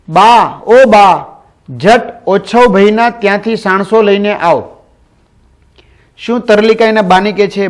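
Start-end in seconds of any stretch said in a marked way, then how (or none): 0.1-4.7 a louder call to her mother across the house; calling out loudly. Acted. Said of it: "મોટેથી બોલતી હતી".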